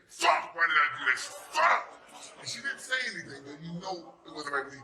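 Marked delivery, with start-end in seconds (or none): 0.1-1.8 loud, high panicked regret; panicked self-blame. Retold or imitated. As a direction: yell at yourself in dismay. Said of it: "And you just like".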